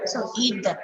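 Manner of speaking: "them" given its full strong form. Shown as a demonstration. Teacher modelling strong "them". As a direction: pronounce "them" fully. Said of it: "Here it is strong".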